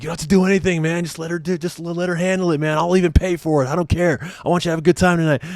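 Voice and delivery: high-pitched, pushy pal impression; egging-on buddies. Buddies offering to pay for a lap dance, high mock urging.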